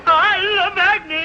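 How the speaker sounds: slow, high, loud swooning. Acted. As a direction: drag it out, lovesick. Gushing over the sheriff's wife.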